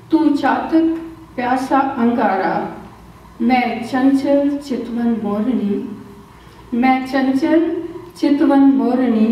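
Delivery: lilting recital with pauses, lines repeated for effect; love poem recitation. Acted. Poet reciting मैं और तू to listeners, tender recital. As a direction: savour each image as a romantic poem.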